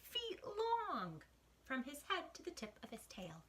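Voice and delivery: put-on lively read-aloud for kids, whispering the spooky bits; picture book rhyme, gently performed; story reading. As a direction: read to children, dropping to a hush for the mysteries.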